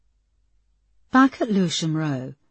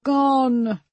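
slow start, rising higher on each gone; building dark fury; 5 semitones higher, 4 dB louder, much slower than usual. A narrator's reading. Linda tells Peterson she wants David gone, rising to a cry. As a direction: climb from menace to a cry.

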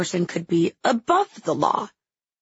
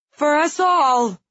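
grudging echo; 7 semitones higher, slower than usual. A narrator's reading. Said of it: "somewhat grudgingly".

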